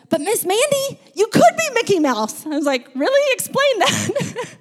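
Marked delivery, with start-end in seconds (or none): 0.1-2.5 high-pitched mock child's voice; little first grader. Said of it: "a little first grader raises his hand". 2.9-4.6 high-pitched mock-incredulous reply; amused disbelief. Teacher's amused reply to the child.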